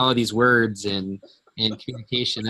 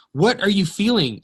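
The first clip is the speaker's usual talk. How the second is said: pressing, raised question; exasperated question; 9 semitones higher, 4 dB louder than usual. Retold or imitated. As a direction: demand to know what she feels, voice up high. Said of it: "I'm like".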